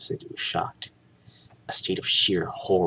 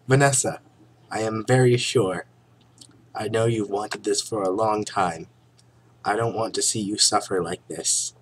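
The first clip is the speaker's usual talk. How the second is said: loud earnest declaration; overacted leading man; hammy stage actor; 3 semitones higher, 4 dB louder than usual. Barry's dialogue, loud and high.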